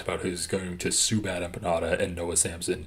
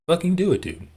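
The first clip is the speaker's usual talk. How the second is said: higher and louder, a sudden yelled dare; exasperated shout; 8 semitones higher, 5 dB louder, faster than usual. Real, not acted. Streamer daring a rival to just sue, shouting. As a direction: bark the dare like you're fed up.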